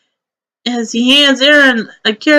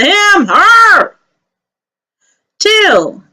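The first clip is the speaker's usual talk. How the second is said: character voice; 6 semitones higher, much slower than usual. Acted. NPC voiced by game master.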